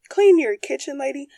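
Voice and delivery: hammed-up loud imitation of a demanding mom; mocking mom's order. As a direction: bark it back like a bossy mother. Retells mom's demand, outraged.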